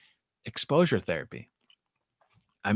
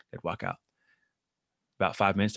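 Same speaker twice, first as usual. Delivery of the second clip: normal talking voice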